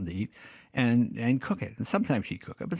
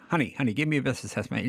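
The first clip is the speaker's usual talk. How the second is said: Jack Lord smooth talk; faster than usual. Retold or imitated. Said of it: "He just talks like this".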